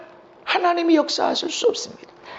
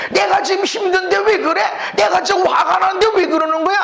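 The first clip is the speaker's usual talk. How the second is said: whiny complaint; 4 semitones higher than usual. Retold or imitated. Voicing complaining heart again.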